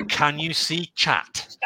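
slow, spaced-out CAN YOU SEE CHAT; deliberate delivery, pausing through CAN YOU SEE CHAT; quoted classic line. Retold or imitated. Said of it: "with his classic".

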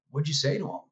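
a mildly amazed ask, pitch lifted; surprised question. Retold or imitated. Coworkers stunned he got through, mild amazed ask. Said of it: "jaws dropped".

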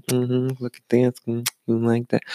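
cocky show-off. Retold or imitated. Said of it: "she thought she was all hot shit".

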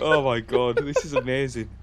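laughing through delight; giggling, amazed. Real, not acted. Laughing at clip.

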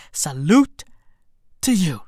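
whispered salute; hushed tribute. Acted.

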